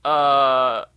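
loud, indignant negotiating; pretend defiant Rudolph. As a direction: Rudolph telling Santa off. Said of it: "I'd be like".

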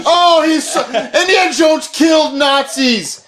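heated protest. Real, not acted. Heated mock argument with the caller.

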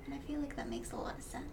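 softly whispered aside. Real, not acted. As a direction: drop to a whisper, unvoiced. Quiet aside during podcast.

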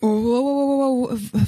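slow, awestruck wows; drawn-out amazed wow; awed wow. Acted. Awestruck at giant eye.

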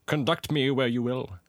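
mildly deferential, fading at the end; submissive Scrooge. Acted. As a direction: yield humbly to the spirit. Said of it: "said Scrooge submissively".

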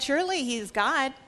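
taunting. Retold or imitated. Elijah taunts the prophets of Baal, mocking. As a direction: needle them with sarcasm. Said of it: "Elijah began to taunt them".

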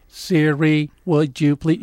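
carefully spaced-out command to a voice assistant; lightly voiced robot request; robot-like talk. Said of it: "talk like a robot".

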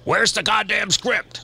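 high, slow exasperated demand; mock an impatient client.

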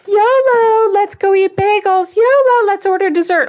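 high, loud mock-tempter voice; sing-song yolo temptation; tempting inner voice. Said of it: "that voice in your head saying".

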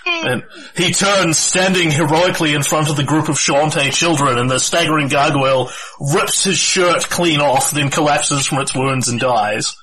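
dramatic battle storytelling; game master narration. Acted. Game master tells players of the raging battle, dramatic narration. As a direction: narrate the heroics with steady, full-voiced drama.

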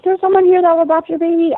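high, loud call across a parking lot; retold bullhorn shout. Woman with a bullhorn calling out to clinic visitors, loud. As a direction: announce it to the whole lot. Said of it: "She's screaming through a bullhorn".

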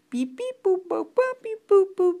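high, loud beeping computer voice; robot beeps. Retold or imitated. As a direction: beep like a machine. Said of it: "how Spock talks".

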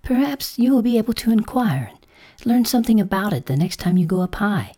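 timid, high-pitched caterpillar request; mildly hesitant high caterpillar voice. A narrator's reading. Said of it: "said the caterpillar timidly".

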